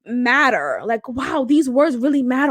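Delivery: mock sarcastic. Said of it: "people think".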